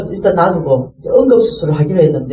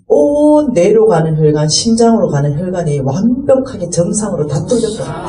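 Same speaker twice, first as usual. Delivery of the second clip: testimony climax. Acted. Preaching the miracle.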